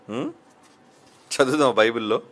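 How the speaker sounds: ordinary delivery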